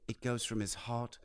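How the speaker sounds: soft, reverent whisper; hushed. Retold or imitated. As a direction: producer describing a guitarist's playing, hushed whisper. Quoting producer's reverent words.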